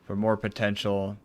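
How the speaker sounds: even, measured read of formal dialogue; reading game dialogue. Acted. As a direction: read the character's lines evenly, lightly dramatised. Reads game dialogue aloud.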